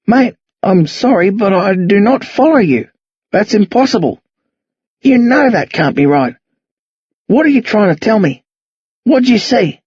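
put-on puzzled old man pleading not to follow; lightly voiced confused old man. Old man questioning two boys, lightly voiced bewilderment.

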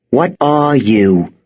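slow, hissed threat through the teeth; startled girl hissing at an intruder she holds at knifepoint; hissed demand. A narrator's reading. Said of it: "she hissed".

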